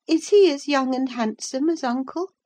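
put-on high childish voice, enquiring; a boy asking about his new home; curious child. A narrator's reading. Linton asks about his father.

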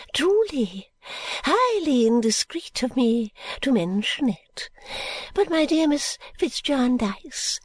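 put-on high, slow, whispery old lady confiding; fluttery elderly lady, hushed and high; Miss Flite voice.

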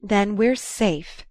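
slow relieved sigh. Acted. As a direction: breathe the words out with relief. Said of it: "she sighed".

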